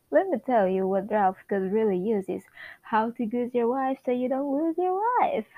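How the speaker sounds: animated amateur read of a sitcom; lightly acted neighborly sitcom banter; sitcom script read-aloud. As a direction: act out both sides of chatty dialogue. Continues reading the sitcom script.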